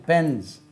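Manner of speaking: பென்ஸ் ending in a voiced Z; Z sound ending. Shown as a demonstration. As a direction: turn the final ஸ் of பென்ஸ் into Z. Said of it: "ஜெட் என்று உச்சரிக்கணும்". (பென்ஸ் கடைசி ஒலி ஜெட்)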